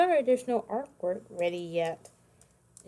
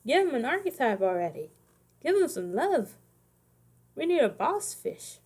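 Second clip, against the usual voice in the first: excited plea; 5 semitones higher than usual. Real, not acted. Pleading with Konami for fish.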